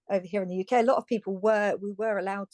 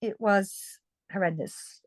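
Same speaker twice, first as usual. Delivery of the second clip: sincere, serious; slower than usual. Real, not acted. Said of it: "I laugh, but it was".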